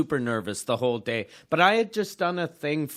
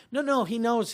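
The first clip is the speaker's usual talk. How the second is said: mock insistent protest, pitched higher; 8 semitones higher than usual. Festival staff correcting the comic about Cosby, insistent. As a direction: wave off the doubt, acting it out.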